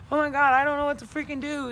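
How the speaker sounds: loud, high, quick mock despair; retold bawling. Vlogger retelling a psychiatrist visit, mock despair. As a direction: fret it out fast, imitating a distressed outburst. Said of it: "I've been in there bawling".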